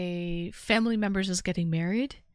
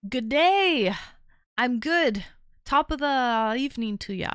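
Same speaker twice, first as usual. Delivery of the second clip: mock Aussie greeting; 2 semitones higher, 3 dB louder than usual. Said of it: "I love the accent".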